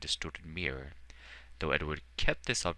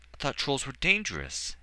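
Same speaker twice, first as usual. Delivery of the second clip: gasped; 10 semitones higher, 5 dB louder than usual. A narrator's reading. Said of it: "Edward gasped".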